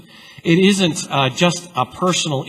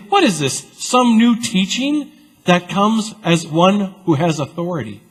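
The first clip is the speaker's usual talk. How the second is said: amazed scribes; 6 semitones higher than usual. Acted. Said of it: "No, they say".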